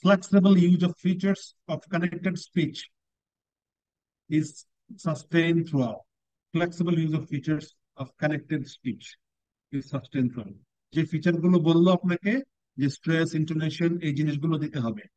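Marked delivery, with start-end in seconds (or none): 0.0-10.6 slow, with long pauses between phrases; teacher reading criteria aloud; very slow descriptor reading. Shown as a demonstration. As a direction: lay each phrase down one at a time. Reads descriptor twice.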